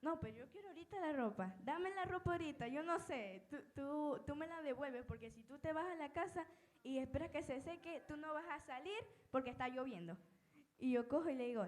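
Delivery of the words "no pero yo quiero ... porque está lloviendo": higher, fast, insistent aunt voice; a lightly voiced, pushy aunt. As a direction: play the aunt pressing for her clothes. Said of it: "mi tía me decía".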